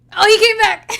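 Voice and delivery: loud high-pitched exclamation; excited surprise. Real, not acted. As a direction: burst out, amused and amazed. Delighted he returns, then laughs.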